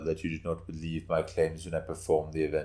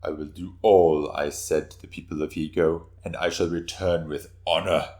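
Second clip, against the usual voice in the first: louder, firm and fierce; fierce statement; 5 dB louder than usual. Acted. Suenaga vowing to the daimyo to return with honor, fierce. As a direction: declare it fiercely, proud. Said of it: "he stated fiercely".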